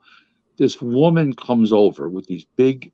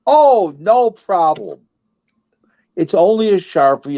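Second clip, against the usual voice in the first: put-on easygoing old man; 5 semitones higher than usual. Old husband shrugs off autograph.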